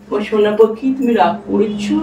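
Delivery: slow, cajoling question; sweet coaxing. Acted. Man asking his silent darling if they're upset, coaxing. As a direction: coax a sulking sweetheart with a drawn-out question. Coaxing sulking partner with pet name.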